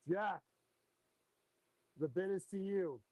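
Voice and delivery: steady auctioneer calling bids; auction bid spotter. Acted. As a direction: call out the bids, auction rhythm. Runs the live fish auction.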